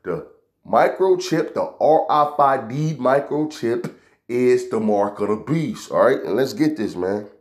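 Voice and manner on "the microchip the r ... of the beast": slow, deliberate, word by word. Shown as a demonstration. Preacher to doubters, slowly spelling it out. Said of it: "I'ma say it slow".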